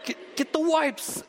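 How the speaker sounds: urgent half-whispered yell, slow; hiss-shout it to your wife. Retold or imitated. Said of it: "I'm doing that whisper yell".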